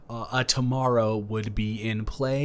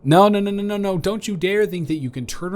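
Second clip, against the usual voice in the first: louder, higher mock-stern no's; playful scolding; 9 semitones higher, 5 dB louder than usual. Real, not acted. Boyfriend stopping his partner from spying, playful scold. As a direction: wag a finger, playfully stern. Stops listener peeking at recipe.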